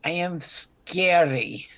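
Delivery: slow, breathy ghostly whisper; spooky whisper. Pretend. Halloween banter, playing scary.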